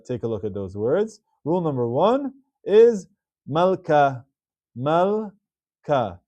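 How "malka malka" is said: "malka" split clearly as mal-ka; two syllables. Shown as a demonstration. Teacher giving the answer to students' practice word, two-syllable demonstration. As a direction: say "malka" with no vowel after the l. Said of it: "Two syllables".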